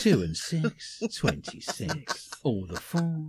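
slow, sing-song bingo call; bingo caller. Acted. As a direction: call the numbers like a bingo hall. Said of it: "I've always wanted to be a bingo caller".

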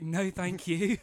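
loud, mock-haughty no thank you; snooty decline; emphatic refusal. Mocking their own refusal.

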